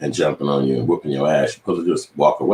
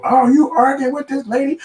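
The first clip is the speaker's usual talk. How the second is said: mocking white bystander; 4 dB louder than usual. Mocking white bystanders confronting him.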